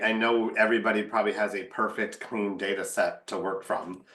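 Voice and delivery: deadpan, understated sarcasm; dry sarcasm. Real, not acted. Marketer joking to fellow panelists about messy data, deadpan sarcasm. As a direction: say it straight-faced, meaning the opposite. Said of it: "That's sarcasm".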